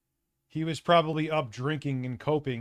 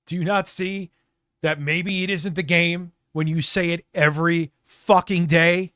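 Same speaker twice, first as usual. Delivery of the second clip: builds to a loud yell on day; rising exasperated rant; 3 semitones higher, 6 dB louder than usual. Real, not acted. Streamer venting at Phil, building to a shout. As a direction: climb from frustrated to shouting.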